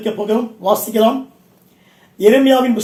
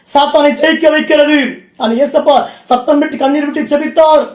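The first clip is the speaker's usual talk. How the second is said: full-force Tamil sermon delivery; impassioned preacher rousing a congregation; fervent preaching. Real, not acted. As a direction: preach it out in ringing, driving phrases.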